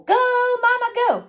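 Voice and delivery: high, loud cheer with stretched "Go"; exuberant shout. A narrator's reading. Dancing ghost pirate to his crew, exuberant shout. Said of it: "he shouted".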